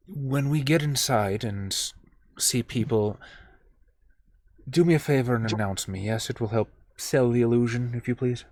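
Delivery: low, very soft confidential murmur; hushed aside. Acted. Player's character quietly asks Kyle to announce them, hushed. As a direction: keep it down, for one person's ears only. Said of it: "sort of whisper to Kyle".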